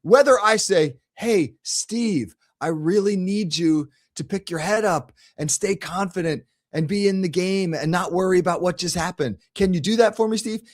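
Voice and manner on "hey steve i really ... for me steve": gentle, patient coaxing; calm encouragement. Retold or imitated. Coach calmly reassuring Steve after turnovers, gentle and patient. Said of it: "If I say it like that".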